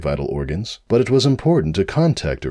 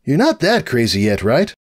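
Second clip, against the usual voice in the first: uneasy little dragon voice; Spike voice; 6 semitones higher, 3 dB louder than usual. Acted. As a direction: drag out the doubt.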